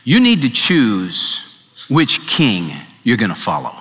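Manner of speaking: grave divine warning, sinking down; solemn voice of God. Retold or imitated. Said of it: "the Lord said this to him".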